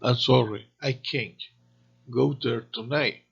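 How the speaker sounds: accent the negative CAN'T within the phrase; stress on CAN'T. Shown as a demonstration. Teacher demonstrates the negative for learners, stress on CAN'T. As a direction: lean on CAN'T, keeping its T light. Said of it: "la diferencia real ... es simplemente la acentuación".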